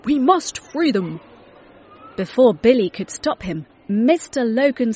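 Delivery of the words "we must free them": louder, rallying call; urgent shout. A narrator's reading. Mister Logan urging Billy to free the TV people, loud. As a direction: rush to the rescue. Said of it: "he shouted".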